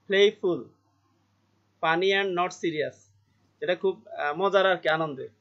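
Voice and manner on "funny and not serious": slow reading. Shown as a demonstration. Teacher reads definition slowly.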